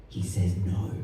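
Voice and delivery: quiet refrain. Acted. Poet reporting the government's refusal, soft and low. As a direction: let the refusal fall softly.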